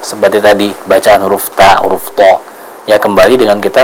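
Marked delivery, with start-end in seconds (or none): 1.5-1.8 ta with a light, plain T; light Arabic letter ta; thin ta. Shown as a demonstration. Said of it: "bagaimana cara kita membedakan". 2.1-2.4 to with a heavy, emphatic T; heavy Arabic letter to; thick to. Shown as a demonstration. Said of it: "bagaimana cara kita membedakan".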